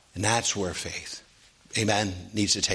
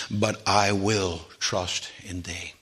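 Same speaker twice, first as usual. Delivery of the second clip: tender resolve; 3 semitones lower, 3 dB quieter, slower than usual. Acted. Preacher voices David's resolve.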